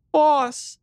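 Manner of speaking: high, loud broken cry; voice breaking. A narrator's reading. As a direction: cry out, voice cracking with relief. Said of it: "her voice breaking, she cried out".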